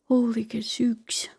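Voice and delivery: slow, hushed whisper; awed whisper. Real, not acted. Streamer reacting to the game, whispered slowly. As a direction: breathe it out in quiet awe.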